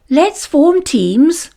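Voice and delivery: slow, coaxing invitation; encouraging. A narrator's reading. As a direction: draw the class in gently, slowly. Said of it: "she encouraged".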